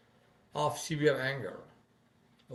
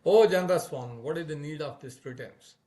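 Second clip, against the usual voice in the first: angry; 2 semitones higher, 7 dB louder than usual. A narrator's reading. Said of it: "reddened with anger".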